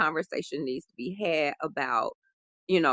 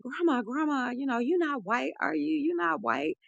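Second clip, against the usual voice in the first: higher, pleading child's voice, imitating her crying self; retold crying plea; 9 semitones higher, 4 dB quieter than usual. Little girl to her grandmother, an imitated tearful plea. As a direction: replay the upset little girl begging for an answer. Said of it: "I'm, like, crying hysterically".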